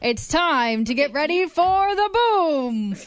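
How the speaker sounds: drawn-out mock announcer line, slow; a laughing imitation of the stadium voice; imitating stadium announcer. Co-host showing how the announcer says the line, half laughing. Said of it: "he goes".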